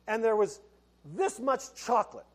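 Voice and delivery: laughing through the words; chuckling at the memory of the chocolate aisle; amused, laughing as he describes it. Real, not acted. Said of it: "And I started laughing".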